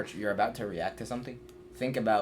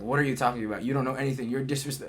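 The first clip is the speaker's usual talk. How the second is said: higher and louder, offended and defensive; indignant inner voice; 5 semitones higher, 5 dB louder than usual. Retold or imitated. Voicing the defensive thoughts when given advice, indignant and loud. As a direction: snap back like someone insulted by advice. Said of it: "that's, like, the thoughts in your head".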